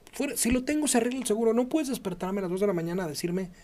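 high, indignant rush of objection; retold protest. Patient objecting to the doctor at night, indignant.

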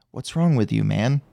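put-on low, accent-free deadpan quote; Tony dropping the accent. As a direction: drop the put-on voice and speak normally. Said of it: "He just speaks normally".

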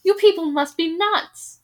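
loud, contemptuous yell; scornful shout. Acted. Bald veteran berating the crowd, loud contempt. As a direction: tell them they're fools.

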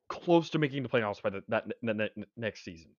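tripping over words; stumbling, repeating little words; stuttering. Real, not acted. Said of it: "Sorry, I stuttered".

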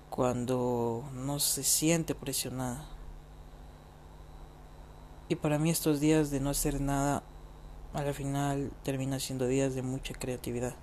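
drowsy, fading voice; falling asleep while talking; nodding off. Real, not acted. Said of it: "Si ven que estoy bajando la voz es porque me estoy quedando dormido".

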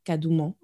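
kadouman with an open final "ah", no sounded t; unsure pronunciation. Shown as a demonstration. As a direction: end "kadouman" on an open vowel, French-like. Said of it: "I don't know how you pronounce that".

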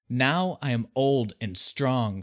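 proud dragon boast; gloating. Retold or imitated. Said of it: "how Smaug introduces himself".

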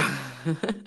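sly villain chuckle; evil laugh. Real, not acted. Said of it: "الضحكة الشريرة".

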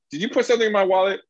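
quick, high mock interrogation; retold accusation. Asking everyone around about the wallet, mock accusing. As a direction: fire it off high and fast at a suspect. Acting out questioning of suspects.

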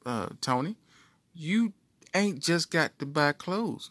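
the brain talking sense into him; inner voice. Acted. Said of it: "my mind like".

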